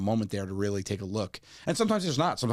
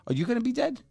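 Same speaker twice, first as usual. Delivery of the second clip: put-on child voice. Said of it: "she's like".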